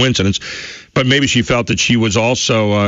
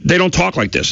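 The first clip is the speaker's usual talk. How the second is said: higher, incredulous critic; mocking disbelief; 7 semitones higher than usual. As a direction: mimic a scoffing skeptic. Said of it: "he also basically said that".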